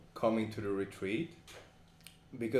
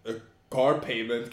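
much higher and louder, whiny mock excuse; 5 semitones higher, 10 dB louder than usual. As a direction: parody a guy dodging the retreat. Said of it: "and then like".

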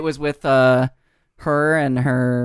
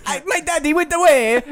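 high, mock-pitiful pet dog voice; hammed-up whimpering pet; Rolf; 11 semitones higher than usual. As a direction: voice an abandoned puppy, pitched way up. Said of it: "the Rolf voice".

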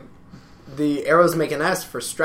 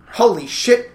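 higher-pitched movie exclamation; Spaceballs impression; 6 semitones higher, 3 dB louder, slower than usual. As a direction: quote it in mock astonishment. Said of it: "like, Spaceballs".

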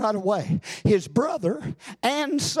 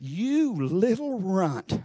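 sneering giant; slower than usual. Retold or imitated. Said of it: "the devil says to him".

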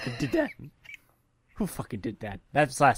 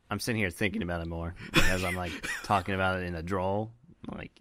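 a blocked-up nasal voice; 3 semitones lower than usual. Real, not acted. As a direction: talk through a stuffy nose. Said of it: "nasally tone to my voice".

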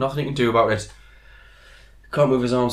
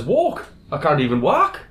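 incredulous; 4 semitones higher, 4 dB louder than usual. Acted. Joke veteran punchline line.

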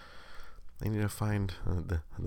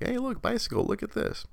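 sing-song distraction. Retold or imitated. Dad distracting toddler son.

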